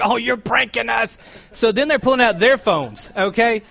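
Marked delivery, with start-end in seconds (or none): 0.0-1.2 teasing. Retold or imitated. Fans accuse him of pranking.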